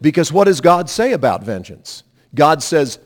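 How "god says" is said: ordinary delivery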